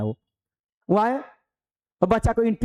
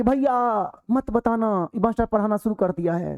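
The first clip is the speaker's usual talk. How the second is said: put-on higher, eager kid's voice tipping off his big brother; excited little boy; 4 semitones higher than usual. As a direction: pitch it up like a small boy blurting a warning. Younger boy warns his brother.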